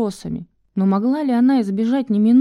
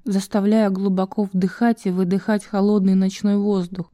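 ordinary delivery, nothing marked

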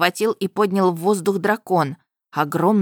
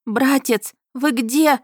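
put-on girl calling out; 6 semitones higher, slower than usual. A narrator's reading.

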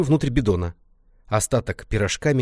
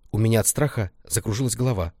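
ordinary delivery

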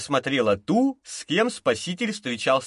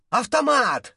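shouting; 8 semitones higher, slower than usual. A narrator's reading. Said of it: "закричал Богданович Даше".

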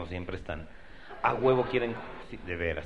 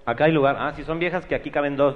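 calling out; 4 semitones higher, 7 dB louder than usual. Retold or imitated. Imitating a loud hustler calling out.

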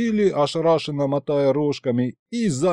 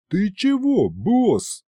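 lightly wary, pitched-up question; 8 semitones higher, much slower than usual. A narrator's reading. Demon warily questions his boss, wary. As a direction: ask it with a touch of alarm. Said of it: "насторожился он".

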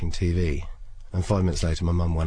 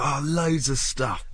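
coy evasive; 6 semitones higher, slower than usual. Retold or imitated. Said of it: "She was like".

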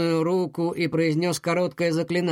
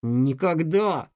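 slow «Никогда!» muttered through clenched teeth; gritted teeth; much slower than usual. Acted. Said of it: "пробормотал он, стиснув зубы". («Никогда!» сквозь стиснутые зубы)

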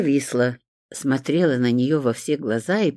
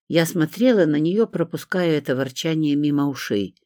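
usual speaking voice

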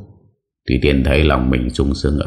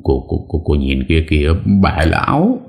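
stammering in fright; 2 semitones higher than usual. Acted. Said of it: "miệng lắp bắp".

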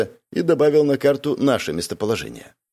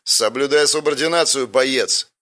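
a mild bark of command; barking order; 4 semitones higher than usual. Acted. Commander puts the insolent mercenary in his place with a mild bark. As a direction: snap the order at the subordinate, understated. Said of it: "рявкнул Плеть один".

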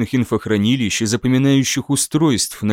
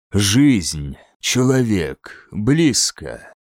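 alien creature voice; 4 semitones lower, much slower than usual. Acted. Predatory alien senses prey.

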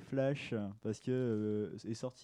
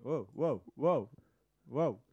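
loud repeated wows; yelling; 5 dB louder, much slower than usual. Real, not acted. Co-host shouting wow into the live stream, yelled. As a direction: shout each wow separately. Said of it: "arrête de crier".

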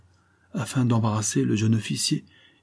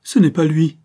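high, louder, aghast; the bride recoiling from the stranger; horrified; 7 semitones higher, 6 dB louder than usual. A narrator's reading. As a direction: gasp it out in horror. Bride realising wrong groom.

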